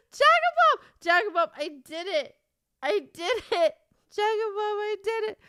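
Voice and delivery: high, loud triumphant cry; excited squeal. Real, not acted. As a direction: shriek the news to a friend, overjoyed. Greets friend with her triumph.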